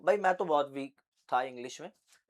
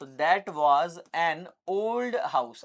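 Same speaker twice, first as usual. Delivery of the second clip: slow model sentence; much slower than usual. Shown as a demonstration. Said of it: "और पुराना घर था".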